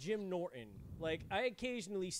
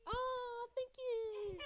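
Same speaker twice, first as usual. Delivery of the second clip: surprised thanks; much slower than usual. Real, not acted. Greeting arriving guest.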